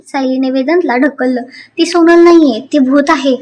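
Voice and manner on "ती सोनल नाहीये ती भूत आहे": mock yell. Sayali shoves Vedant, shouting.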